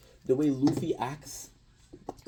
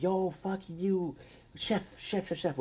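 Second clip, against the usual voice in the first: higher, slow mocking jeer at the chef; mocking cooks; 8 semitones higher, slower than usual. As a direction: taunt the chef in a higher sing-song. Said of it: "everybody's cook's like".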